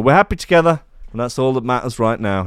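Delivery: faltering attempt at a Birmingham accent; Brum accent. The speaker saying they are happy together, in a slipping Brum accent. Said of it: "I can't do a Brum accent anymore".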